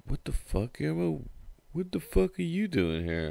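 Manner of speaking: high-pitched startled what the fuck; mock shocked buddy; surprised friend. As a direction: yelp it in startled disbelief. Friend finds him on couch.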